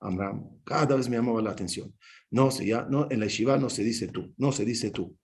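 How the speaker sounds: stern rabbi correcting. Retold or imitated. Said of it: "Y él me decía".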